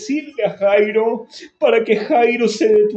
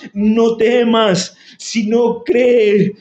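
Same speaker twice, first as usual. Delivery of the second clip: slow reassurance; slower than usual. Acted. Preacher voices Lord's words slowly.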